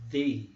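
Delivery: D said with the tongue between the teeth; teacher isolating the sound; TH sound demo. Shown as a demonstration. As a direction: model the voiced TH sound. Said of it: "mas assim, ó".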